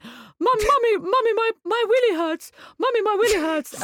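put-on high, whining child's voice; little brother whining to mum in the car; whiny little boy. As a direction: plead like a small boy in pain. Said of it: "he went".

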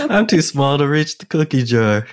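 high, giggly little voice; laughing small voice. Acted. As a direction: squeak it out through laughter. Mock small-voice while laughing.

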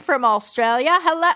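slipping into a bad Australian accent; loud donor call turning Australian by the end; accidental Australian accent. Real, not acted. Greeting a donor from Australia, accidental Australian accent. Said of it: "didn't even mean to do an Australian accent".

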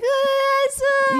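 a sudden high exclaimed ah, lightly mimicking; hint of a Larry David exclamation. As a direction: toss off a quick Larry David whine. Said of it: "the Larry David".

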